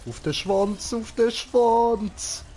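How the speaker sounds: high, loud excited shout; excited yelling. Real, not acted. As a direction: yell it out in the heat of the game. Excited gaming callout.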